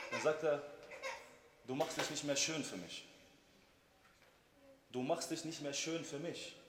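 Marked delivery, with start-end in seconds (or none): 1.7-6.6 mildly tender husband's voice; loving, gentle. Retold or imitated. Husband gently telling his wife she neglects her looks, loving. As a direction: retell it gently and unhurried. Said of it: "mit Liebe hat er gesagt".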